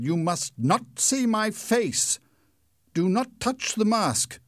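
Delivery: high, loud, slow commanding phantom voice; the masked stranger forbids her to look; menacing masked man. Acted. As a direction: warn her off like a hidden ghost. Masked man warns Christine.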